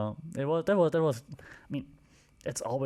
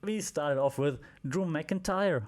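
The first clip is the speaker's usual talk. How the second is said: light attempt at a Scottish accent; hint of a Scottish brogue; 5 semitones higher than usual. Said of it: "my best Scottish accent".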